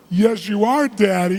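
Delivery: put-on high, loud childlike insistence; crying little daughter. Five-year-old contradicts her father, mock tearful protest. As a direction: insist like an upset little girl, acted. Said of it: "she's crying hysterically".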